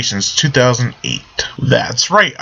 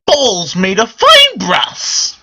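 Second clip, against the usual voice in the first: leprechaun; 7 semitones higher, much slower than usual. Pretend. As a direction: proclaim it like a leprechaun. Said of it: "I sound just like the fucking leprechaun".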